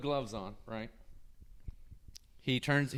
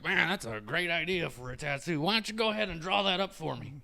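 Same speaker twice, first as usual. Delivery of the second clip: high-pitched mock enthusiasm, imitating the tattooer; sarcastic retort; 6 semitones higher than usual. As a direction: throw the idea back, higher and sarcastic. Tattooer mockingly retorts to client's idea.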